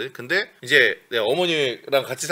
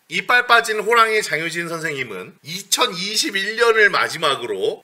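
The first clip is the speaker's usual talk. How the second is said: mock solemn oath. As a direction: recite it like a sworn declaration. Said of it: "장효진의 선서".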